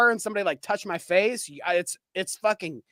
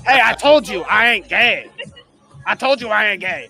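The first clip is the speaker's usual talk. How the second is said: laughing mock protest; 3 semitones higher, 6 dB louder than usual. Mock defensive retort.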